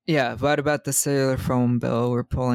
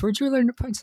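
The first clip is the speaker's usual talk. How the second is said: mock Dewey; 11 semitones higher, faster than usual. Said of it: "And Dewey asks".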